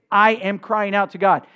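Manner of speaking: firm, weighty declaration of "I am crying out to God"; emphatic. Acted. Preacher voices the psalmist's "I am crying out to God", emphatic. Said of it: "Emphatic statement".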